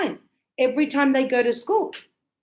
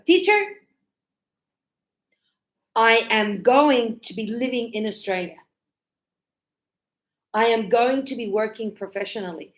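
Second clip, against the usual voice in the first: confident student plan. Retold or imitated. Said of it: "they go".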